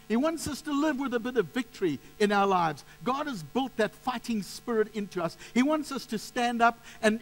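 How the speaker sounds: impassioned sermon delivery; fervent preaching. Real, not acted. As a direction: press the point home like a rousing preacher. Preacher building in fervour.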